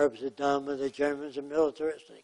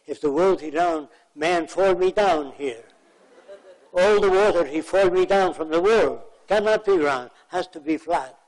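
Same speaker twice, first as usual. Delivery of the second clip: put-on rising into a higher, louder Arab accent, half laughing; mock-earnest Arab accent arguing the flat earth; imitating broken Arab English; 3 semitones higher, 5 dB louder than usual. Lecturer mimics the Arab man's flat-earth argument in Arab accent. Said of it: "That's the way he spoke".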